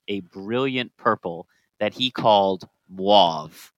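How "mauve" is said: "mauve" said slowly, drawn out; odd pronunciation. Real, not acted. Co-host naming the new purple dye, odd pronunciation of "mauve". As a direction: stretch "mauve" into an odd, long vowel. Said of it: "Why are you saying it like that?".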